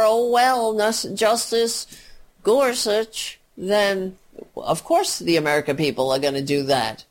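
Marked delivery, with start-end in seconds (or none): 0.0-3.4 mock meek acceptance. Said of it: "laying down and rolling over".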